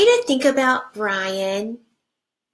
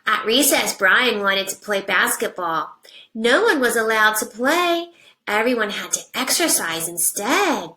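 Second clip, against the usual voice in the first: put-on reading to children. Teacher reading a picture book to her class, animated storybook voice.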